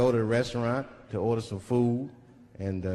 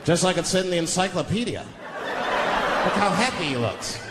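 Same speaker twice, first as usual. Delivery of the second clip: mocking onlookers; slower than usual. Imagined onlookers mocking him.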